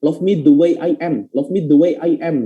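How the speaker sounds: each word of "love me the way I am" kept separate; choppy word-by-word reading. Shown as a demonstration. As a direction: read it unlinked, one word at a time. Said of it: "baca satu persatu".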